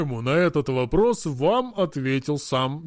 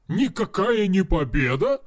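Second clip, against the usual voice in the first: exclaiming; 3 semitones higher than usual. Acted. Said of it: "вскричал он".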